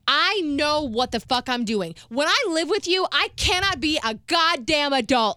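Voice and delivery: rising, exasperated retold rant; retold angry yelling. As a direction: re-enact blowing up at mom. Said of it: "what were you yelling at her about?".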